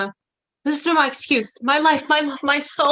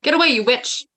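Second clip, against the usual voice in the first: louder, angry push-away; angry brush-off; 4 dB louder than usual. Acted. Lysander to Hermia as she clings to him, angry. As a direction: snap her off you.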